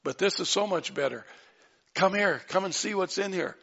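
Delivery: quick, bright invitation, rising on look; eager show-off. Acted. Angel inviting the women in like showing off a new car, eager. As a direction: brag about a new house. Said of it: "like you got a new house".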